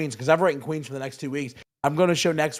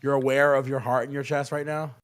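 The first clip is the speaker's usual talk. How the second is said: heavy-mouthed and dazed; groggy from edibles. Real, not acted. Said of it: "do you wanna know what's crazy about being this high".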